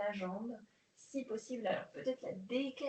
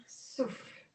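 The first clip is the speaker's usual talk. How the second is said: breathed-out cue. Shown as a demonstration. Instructor cueing her class to exhale, breathy whisper.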